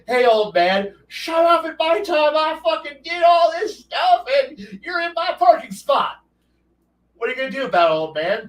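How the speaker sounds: mock the old man like cocky young adventurers; taunting young punks. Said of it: "And the party goes".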